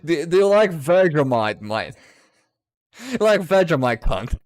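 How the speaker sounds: high, loud cartoon Australian; pushy, over-the-top Australian accent; mock Australian accent. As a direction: tease in a hammed-up Aussie accent. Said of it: "a very thick Australian accent".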